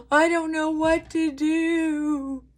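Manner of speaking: high, slow, pleading cry; retold despair. Telling her sponsor, a high slow helpless plea. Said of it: "And I said".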